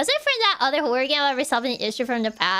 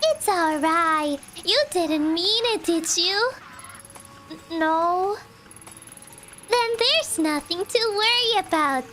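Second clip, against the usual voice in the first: creepy calm cultist. Acted. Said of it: "this cultist voice is too good".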